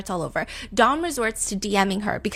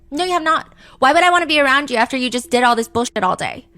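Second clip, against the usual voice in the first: angry; 5 semitones higher, 6 dB louder, faster than usual. Acted. Mackenzie's angry DM read aloud.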